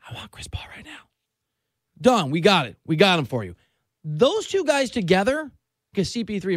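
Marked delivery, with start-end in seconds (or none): 0.1-1.1 fierce whispered demand; whisper yelling. Retold or imitated. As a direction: hiss it like a shout. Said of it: "He's a whisper shouter".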